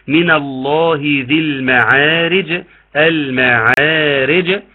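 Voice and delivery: slow chanted Quran recitation; tajweed recitation. Shown as a demonstration. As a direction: recite the verse slowly, drawing out the vowels. Recites the verse. (تلاوة مجودة بطيئة)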